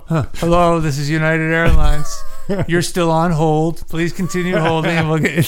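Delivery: chirpy recorded hold message; lightly voiced airline recording; phone menu voice. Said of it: "they change the voice and everything".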